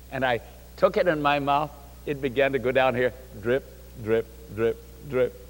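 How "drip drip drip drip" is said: low, soft little drips; hushed, low dripping words; imitated dripping. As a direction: drop each word softly, like juice falling. Imitating juice dripping slowly down.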